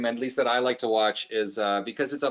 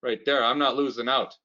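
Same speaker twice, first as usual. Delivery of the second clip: stubborn dad; 3 semitones higher than usual. Retold or imitated. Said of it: "My dad wants Tim cups".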